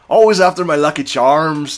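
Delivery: a touch of cereal-advert Irish brogue; corny Irish accent. Acted. Mocking his own old bar act in a hint of corny Irish accent. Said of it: "total fake ass Irish accent".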